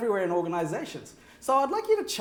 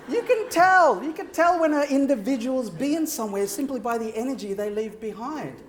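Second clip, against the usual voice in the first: much higher and louder emphasis; emphatic; 6 semitones higher, 4 dB louder than usual. Real, not acted. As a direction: drive the point home. Emphatic speaker point.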